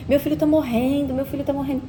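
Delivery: mildly imitating a crying father; retold tearful panic. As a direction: retell his tearful panic with restraint. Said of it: "ele começou a chorar".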